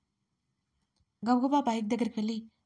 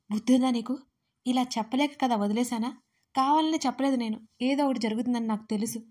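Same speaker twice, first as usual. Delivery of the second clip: louder, scolding yell at a careless friend; angry shout; 3 dB louder than usual. Acted. Friend scolds Pranay over phone for risking his sick sister, shouting. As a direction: tear into him for his carelessness. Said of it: "అని గట్టిగా అరిచాడు అర్జున్".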